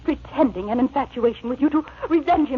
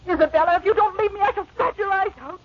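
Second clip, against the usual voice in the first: fast, high, furious threat; 6 semitones higher than usual. Acted. Catherine threatens Isabella.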